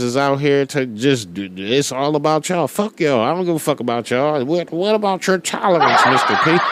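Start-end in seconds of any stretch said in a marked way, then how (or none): 4.4-6.6 mock critic voice. Imagined critic questions the speaker.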